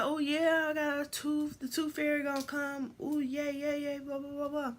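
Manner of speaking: put-on high, eager child voice; bubbly little kid gushing; giddy child imitation; excited kid self. Kid self excited about tooth fairy.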